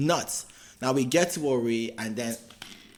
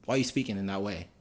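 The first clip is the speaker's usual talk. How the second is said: lower, softer attempt at a Yoruba accent; imitated Yoruba accent; 4 semitones lower, 5 dB quieter than usual. Soldier questioning the boy's speech, imitated Yoruba accent. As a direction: do a rough Yoruba accent, pitched down. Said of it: "thick Yoruba accent".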